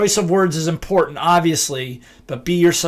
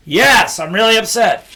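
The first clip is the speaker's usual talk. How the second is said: upset person; 3 semitones higher, 4 dB louder than usual. Retold or imitated. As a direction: answer as the angry one, louder. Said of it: "role of upset person".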